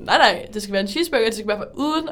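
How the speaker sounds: laughing insistence; insistent. Retold or imitated. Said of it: "så var jeg sådan".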